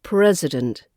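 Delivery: "president" said PREZ-uh-dent; schwa in president. Shown as a demonstration. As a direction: reduce the I of "president" to a relaxed uh. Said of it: "it's that I after the S".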